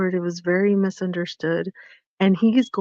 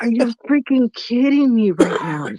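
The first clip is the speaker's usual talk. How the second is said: mildly indignant retold disbelief, pitched up; incredulous; 4 semitones higher than usual. Visitor reacting to a remark on the outfit, incredulous. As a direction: react in mock outrage, voice lifted.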